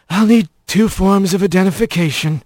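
lightly voiced bored young clerk; flat, uninterested, going through the motions; bored and sullen. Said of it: "his voice bored and sullen".

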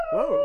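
high squealing laugh and whoa. Real, not acted. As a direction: burst into a high giggle. Loud laugh after station ID.

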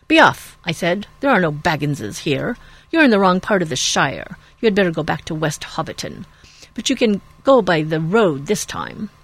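loud gruff order to leave; angry farmer. Acted. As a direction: drive him off the land.

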